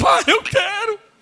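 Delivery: put-on very high, loud, weepy child's crying voice. Speaker acting out a child talking to their father, imitating a crying child. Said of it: "Tem hora que está chorando".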